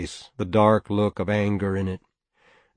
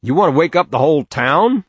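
gruff father; 7 semitones higher, 8 dB louder than usual. A narrator's reading. Father scolding noisy boys.

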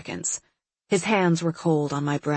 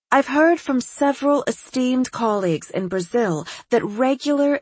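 higher, breezy, self-assured psychiatrist; eccentric doctor voice; 6 semitones higher than usual. Acted. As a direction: play her as a cheerfully odd doctor. Doctor suggests odd treatment.

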